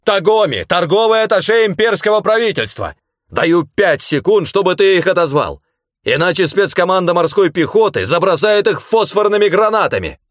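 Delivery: high, loud raging shouts; hysterical yelling. A narrator's reading. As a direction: threaten at a full yell, near hysterics. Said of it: "ругань на грани истерики".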